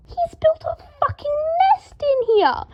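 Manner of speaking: high, loud outraged yell; furious shout. A narrator's reading. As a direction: scream it in fury. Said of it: "Draco said furiously".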